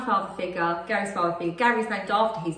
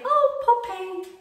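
dozy cooing; 11 semitones higher, much slower than usual. Retold or imitated. Trying the baby's name while making the bed, dozy. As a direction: imitate your own dozy cooing. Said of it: "said it in such a dozy way".

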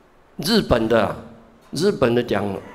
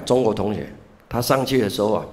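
ordinary delivery

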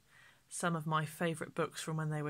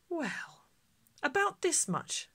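put-on much higher, small girl's voice; little girl Millie; 10 semitones higher, slower than usual. Millie showing the shopkeeper her empty purse, high childish voice. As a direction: squeak it like a sheepish child.

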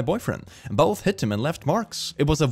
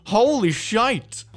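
real disbelief climbing higher, drawn out; shocked exclamation; 9 semitones higher, 3 dB louder, slower than usual. Real, not acted. Reacting to the clip getting worse, shocked and higher. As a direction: gasp it out as it gets worse.

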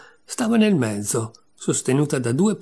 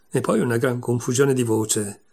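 usual speaking voice

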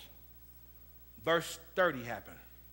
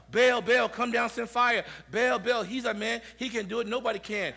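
raised, higher mock yell of frantic prophets; imitated yelling; 8 semitones higher, 8 dB louder than usual. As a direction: imitate worshippers calling out to their god. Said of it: "prophets are yelling, screaming about".

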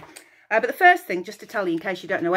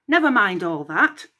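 cross; 4 dB louder than usual. Acted. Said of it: "Hera interrupted crossly".

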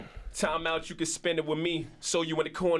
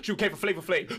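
Eddie Murphy impression; faster than usual. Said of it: "Eddie Murphy".

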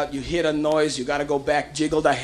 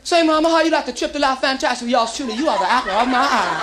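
smooth pickup line voice; 5 semitones higher than usual. Acted. Soldier trying to pick up girls.

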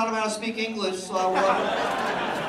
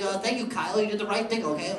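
understanding dad; 4 dB quieter than usual. Retold or imitated. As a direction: reassure your kid, a hint of gentle dad. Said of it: "And their dad's like".

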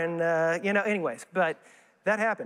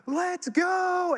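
rash eagerness; 9 semitones higher than usual. Retold or imitated. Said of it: "but just be like".

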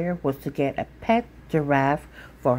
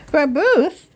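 put-on higher, louder baffled child; puzzled echo; 12 semitones higher, 6 dB louder than usual. Sophia echoing mother's word, high and baffled. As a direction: repeat the strange word in disbelief.

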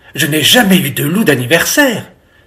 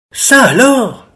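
higher-pitched amazed mother; astonished exclamation; 6 semitones higher than usual. A narrator's reading. Mother seeing jam-covered children, astonished. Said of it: "s'écrie maman".

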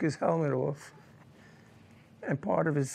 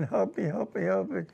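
retold crying plea. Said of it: "he was crying".

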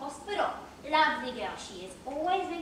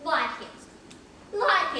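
scornful; 4 dB louder than usual. Acted. Scornful echo of question.

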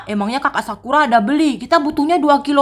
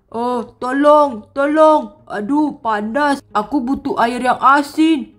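suffering worm king. Acted. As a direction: whine about the heat, stretching some words. Worm king begs for salt water. (raja cacing mengeluh kepanasan)

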